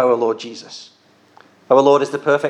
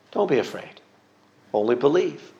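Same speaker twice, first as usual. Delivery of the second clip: softly reassuring, a little quieter; gentle and encouraging; 4 dB quieter than usual. Retold or imitated. Jesus gently encouraging fearful Jairus, soft and reassuring. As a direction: coax a frightened father gently into belief. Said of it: "he says gently and encouragingly".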